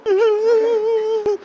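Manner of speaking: very high, drawn-out mock wail. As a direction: imitate someone bawling as if bereaved. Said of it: "그렇게 울어". (초상난 듯 높게 우는 흉내)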